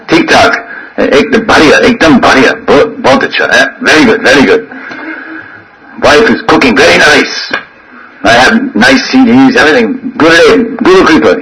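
lightly acted breezy all-is-well report; complacent disciple. Disciple reporting to his guru, mock contentment. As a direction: reassure the guru with glib little phrases. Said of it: "if the guru asks the disciple".

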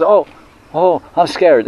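high mock-frightened cry of a small boy; mock scared child. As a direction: squeal it like a scared little kid. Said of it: "and Krishna goes".

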